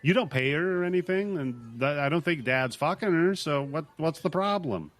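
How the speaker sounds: high, exasperated mother venting; exasperated mom. Retold or imitated. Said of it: "she's like".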